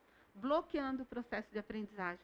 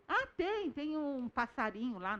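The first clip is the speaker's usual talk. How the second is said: put-on children replying; 2 semitones higher than usual. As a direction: imitate a child answering helpfully. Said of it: "Aí eu chamo os outros".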